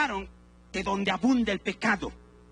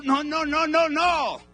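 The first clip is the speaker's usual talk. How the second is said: emphatic no; 5 semitones higher, 5 dB louder, slower than usual. Real, not acted. Preacher rejects absurd idea.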